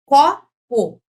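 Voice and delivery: "Copo" separado, com "CO" bem forte; sílaba por sílaba. Shown as a demonstration. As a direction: separe "Co-po", batendo alto no "Co". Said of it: "Essa é a tônica". ("Copo" dito em duas sílabas destacadas)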